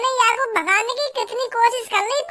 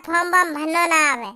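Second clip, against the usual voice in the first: mocking imitation; 5 semitones lower than usual. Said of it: "के form वॉर्म भरना ना आवे ना".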